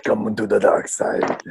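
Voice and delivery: lightly voiced movie villain; a hint of a dark lord luring someone; Darth Vader. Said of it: "he was like Darth Vader".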